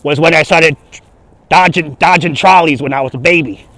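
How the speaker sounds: put-on comic old-Brooklyn storyteller accent. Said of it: "I learned my Brooklyn accent".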